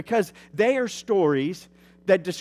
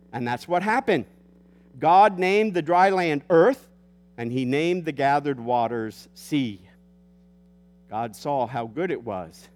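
booming biblical narration. Acted. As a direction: read Genesis like a solemn proclamation. Reads Genesis aloud to congregation.

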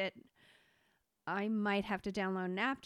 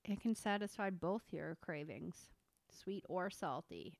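whispering; 2 semitones lower, 6 dB quieter than usual. Real, not acted. Whispered aside about the chips.

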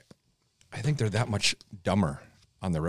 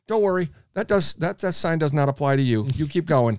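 higher-pitched sarcastic call-out; mock yell; 7 semitones higher, 3 dB louder than usual. Driver to rule-breakers out the car window, mock yell. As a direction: call it out high, with mock reassurance. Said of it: "I yell out my window".

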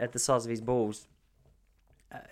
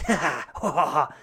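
put-on toddler giggle; 4 dB louder than usual. Toddler laughing, voiced by dad.

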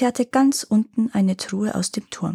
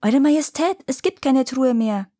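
shouting up; 5 semitones higher than usual. Acted. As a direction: call up to the king far above. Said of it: "Also schrie er nach oben".

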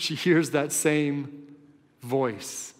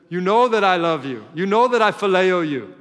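louder and higher, pressing each word; pleading protest; 4 semitones higher, 7 dB louder than usual. Acted. Peter, stung by the question, answers Jesus with a loud, pleading protest. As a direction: insist on it as a hurt friend.

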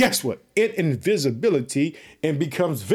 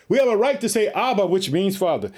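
stronger second take; 4 semitones higher than usual. Shown as a demonstration. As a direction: repeat it harder so it lands. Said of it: "Did you hear it?".

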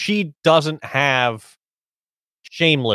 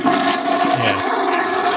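toilet flush; 4 semitones lower than usual. Retold or imitated. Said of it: "hit Matt, that, uh, toilet flushing sound effect".

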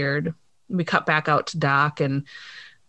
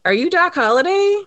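excited fan; 11 semitones higher, 3 dB louder than usual. Retold or imitated. Fanboy kid asking Doc.

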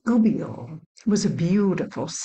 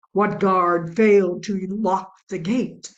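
accusing butcher; 6 dB louder than usual. Acted. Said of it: "accused the butcher".

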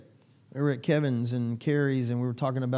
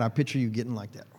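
whispered aside; 4 semitones lower, 6 dB quieter, faster than usual. Real, not acted. Teasing aside to congregation member.

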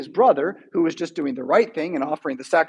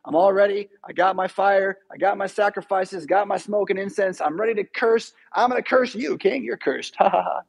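lightly voiced, smug greedy prophet; a hint of a gloating hireling; greedy Balaam. Balaam takes the king's money, smug and gloating. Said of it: "the great way the story goes".

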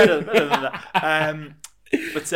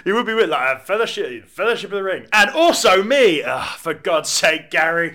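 loud, slow, higher exasperated groan; eager would-be volunteer; 7 semitones higher, 12 dB louder than usual. Acted. Extra at the council whining loudly about missing out. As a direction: whine like the extra left out.

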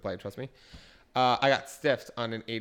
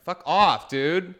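louder, higher fed-up snap; snapping; 6 semitones higher, 6 dB louder, much slower than usual. Retold or imitated. Bartender snapping at a customer who antagonized her. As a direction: bark it at the rude customer. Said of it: "you're like".

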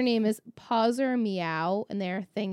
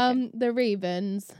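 flat monotone listing; slower than usual. Shown as a demonstration. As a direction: read it like a bored robot. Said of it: "I'll read the monotone".

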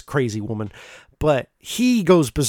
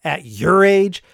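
higher, louder mocking "Ha!"; scoffing laugh; 5 semitones higher, 4 dB louder, slower than usual. Young woman laughing at an older suitor's proposal, scoffing. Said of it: "She goes".

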